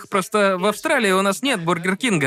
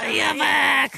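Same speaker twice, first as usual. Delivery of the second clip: mock insult yelled high; playful shout; 7 semitones higher than usual. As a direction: shout it back as a joke.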